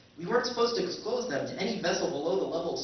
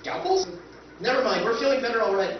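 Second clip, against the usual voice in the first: panicked backpedal; 4 dB louder, faster than usual. Acted. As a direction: blurt it out fast to dodge the scalpel. Panicked backpedal from brain surgery.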